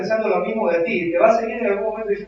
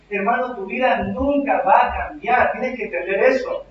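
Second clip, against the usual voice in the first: preaching shout. Real, not acted. Preacher warns the congregation.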